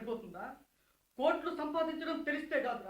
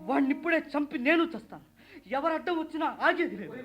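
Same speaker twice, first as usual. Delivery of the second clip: vengeful threat; 2 semitones higher than usual. Acted. Widower vows revenge.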